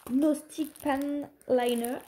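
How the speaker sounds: careful English with French accent. Real, not acted. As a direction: read the English product name with a French accent. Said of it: "Avec mon super accent anglais".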